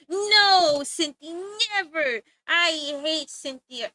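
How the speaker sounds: mock-villain refusal, sudden loud No; mock evil. Teasing a chat friend about her art, mock evil. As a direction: play a cartoon villain refusing. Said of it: "I was trying to be evil shape".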